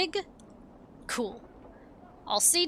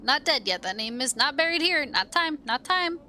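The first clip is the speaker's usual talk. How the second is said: sing-song dustman, rising; 3 semitones higher than usual. Acted. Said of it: "curious sing-song voice".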